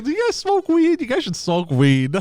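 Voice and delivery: imitating tow truck guy. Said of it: "he was like".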